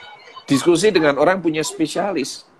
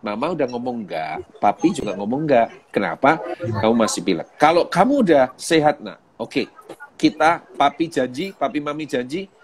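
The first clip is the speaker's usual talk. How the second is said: put-on gentle talk to child; 2 semitones lower than usual. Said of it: "saya akan ngomong sama anak saya".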